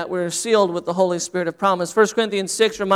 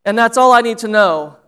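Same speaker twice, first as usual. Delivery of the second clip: shouting; 5 dB louder than usual. Retold or imitated. Scared boy Bobby shouts to the packed church, loud. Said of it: "and then Bobby shouted".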